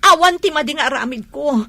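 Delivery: loud, rising protest; angry insistence. Acted. Accused woman insisting to the wife on the phone, loud protest.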